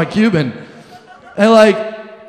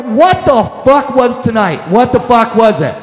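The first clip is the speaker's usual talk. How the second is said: disbelieving shout; 3 semitones higher than usual. Retold or imitated. Stunned walking away.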